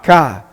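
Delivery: "ka" as one syllable, a k then an open ah; teacher models "ka" alone after a pause; syllable demo. Shown as a demonstration. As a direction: sound out "ka" for learners. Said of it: "we're gonna pronounce it".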